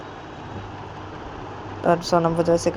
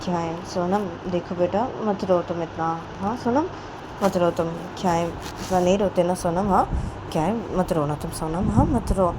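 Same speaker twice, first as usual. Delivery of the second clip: gentle consoling; 3 dB quieter than usual. Acted. Plays Payal comforting crying child.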